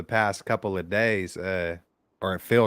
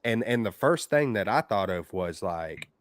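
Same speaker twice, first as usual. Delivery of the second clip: over the phone. Real, not acted. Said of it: "another caller on the line".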